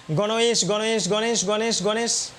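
গণেশ run together quickly and repeated; fast joined গণেশ, said over and over. Shown as a demonstration. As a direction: blend গণ and ইস into one quick গণেশ. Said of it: "দ্রুত উচ্চারণ করি, মিল করে উচ্চারণ করি".

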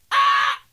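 high, short shriek; mock scream. Son reacting to dad's Italy, mock scream. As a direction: shriek in hammed-up horror.

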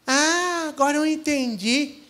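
high, amused voice of a simple peasant; peasant's realisation. Acted. Peasant explaining the shield to the warriors, amused. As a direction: tease them with the obvious answer.

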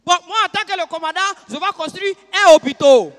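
loud announcement, "hôpital" wrongly ending in -o; commander's address. Acted. Commander announcing his project again, loudly saying "hôpital" with an -o ending. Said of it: "Il dit".

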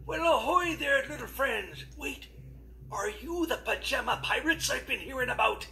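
lightly voiced friendly pirate captain; a hint of an old sea dog.

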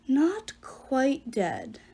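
very slow, drawn-out giant speaking through Percy; booming giant voice. Acted. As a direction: stretch every word like a looming giant. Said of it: "The giant's words boomed from Percy's mouth".

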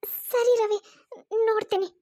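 answering through tears; a small tearful okay; crying. Acted. Sakshi agreeing to Ravi while crying. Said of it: "ನೀನ್ ಅಳ್ತಾ ಇರೋ ಹಾಗಿದೆ".

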